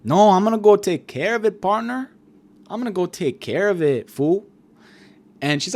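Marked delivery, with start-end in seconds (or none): 0.0-4.5 raised, put-on tough-guy voice; hammed-up swaggering character voice; Tony Soprano parody. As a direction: play the dad off to settle things. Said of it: "And he's like".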